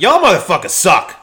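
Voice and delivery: loud rough Philly y'all. Retold or imitated. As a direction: bark it like a Philly guy. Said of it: "mine's more like".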